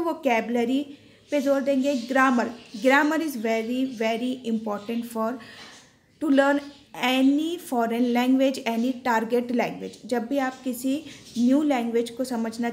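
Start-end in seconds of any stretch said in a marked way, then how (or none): 2.8-9.9 very slow, word by word English; teacher spelling it out slowly for class; slow dictation. Shown as a demonstration. Teacher dictating to students, slow and deliberate. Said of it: "teacher slowly dictating English sentence".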